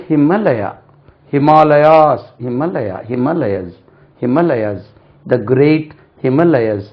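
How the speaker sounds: Himalayas drilled in several careful takes; model pronunciation. Shown as a demonstration. Teacher drills the mountain name for learners, careful model pronunciation. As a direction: repeat ஹிமாலயாஸ் as a word drill. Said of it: "அது ஹிமாலயாஸ் என்று உச்சரிக்கப்படுகிறது".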